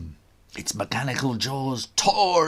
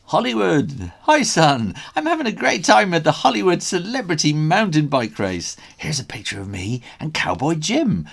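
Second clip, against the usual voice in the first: high, loud and gushing; a proud dad bragging from Hollywood; excited dad; 7 semitones higher, 5 dB louder than usual. A narrator's reading. Dad's message to his son, high and excited.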